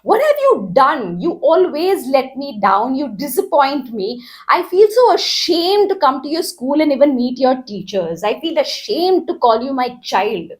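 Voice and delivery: put-on an upset parent telling off a child; agitated parent. Parent scolding child over failed exam, agitated. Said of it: "the parent is agitated and says".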